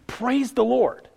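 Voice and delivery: high, slow, jubilant call of praise; exultant cry. Acted. Preacher asking the church about joyful praise, high and exultant. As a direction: lift it up like a heart bursting with joy.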